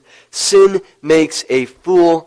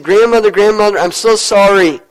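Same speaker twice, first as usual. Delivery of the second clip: higher, pleading confession with a touch of tears; tearful plea; 4 semitones higher than usual. Acted. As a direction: beg grandma for forgiveness, mildly weepy. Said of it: "He broke down in tears and said".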